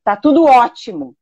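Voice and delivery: mock cheerful, meaning the opposite; ironic. Shown as a demonstration. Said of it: "falou com uma voz de ironia".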